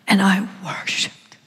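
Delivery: whispered worship. Retold or imitated. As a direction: hush it reverently.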